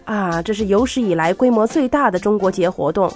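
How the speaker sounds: ordinary talk, nothing marked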